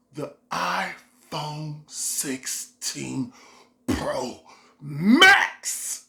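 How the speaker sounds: hushed, breathless, nearly whispered; awed hush. Real, not acted. Spotting the dream phone in the app, an awed hush. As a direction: let it drop to an awed whisper.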